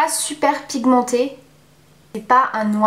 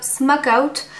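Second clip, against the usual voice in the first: English accent; 3 semitones higher than usual. Real, not acted. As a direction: say Smoke Out with a French speaker's English accent, slowly. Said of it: "désolée de mon accent anglais". (nom de fard dit lentement avec un accent anglais)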